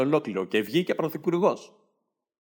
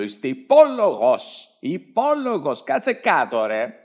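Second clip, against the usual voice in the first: mock parliament shout; 4 dB louder, slower than usual. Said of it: "και φώναζε".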